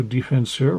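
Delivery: mock French pronunciation of a hockey position; French accent. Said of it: "My French accent is amazing".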